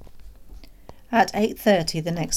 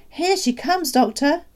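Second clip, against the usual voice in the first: very high, louder urgent call; excited calling out; 11 semitones higher, 6 dB louder than usual. A narrator's reading. Father alerting the doctor to her arrival, excited call. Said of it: "my father called out".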